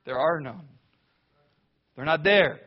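normal talking voice

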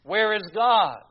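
a hammed-up public lament; mock outcry. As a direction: cry out like the anguished media. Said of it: "the media cried out".

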